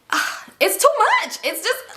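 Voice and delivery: high, slow, overwhelmed groan; exasperated. Real, not acted. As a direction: sound completely done with it. Exasperated storyteller.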